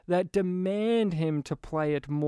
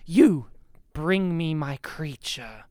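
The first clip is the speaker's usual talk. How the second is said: cold monotone; 4 dB louder, slower than usual. Retold or imitated. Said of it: "he still delivers it in his monotone, cold way".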